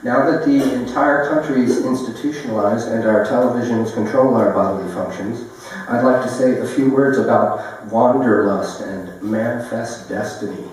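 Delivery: declaimed like a public address; poem reading. Acted. Poet addresses an institutionalized country, declaimed recital. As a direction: read it out as a mock speech.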